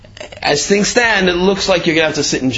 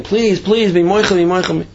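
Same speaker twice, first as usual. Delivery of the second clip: high, repeated pleading; imitated desperate plea; retold begging; 6 semitones higher than usual. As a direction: beg for forgiveness, acted without real tears. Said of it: "begging and begging and crying".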